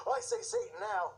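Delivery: high, smug mock voice; mocking quote. Preacher mocking a Satan fan to viewers, high mock voice. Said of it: "You might be saying".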